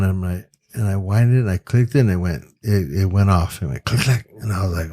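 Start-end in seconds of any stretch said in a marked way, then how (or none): 3.8-4.3 crisp camera click sound; imitated shutter click. Photographer showing the camera finally went off, imitated click. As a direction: make the camera's click with your mouth.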